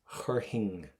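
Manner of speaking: chur hing with no F, just a breath of H; silent F. Shown as a demonstration. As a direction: say chur hing without any F sound. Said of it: "don't pronounce the F".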